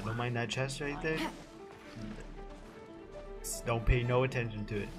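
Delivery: normal talking voice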